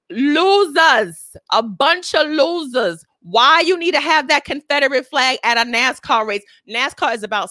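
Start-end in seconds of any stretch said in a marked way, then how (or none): 0.1-3.0 slow, high Brooklyn accent drawling losers. Shown as a demonstration. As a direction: stretch losers out Brooklyn style. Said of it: "Here come the Brooklyn accent".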